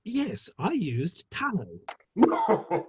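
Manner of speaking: slow, with a laugh through it; chuckling joke. Acted. Reed answering the candle jibe, laughing slowly. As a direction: savour the quip as you laugh. Joking reply about the candle.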